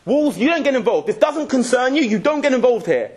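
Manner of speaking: mock stern rebuke; scolding the walls. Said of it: "He says".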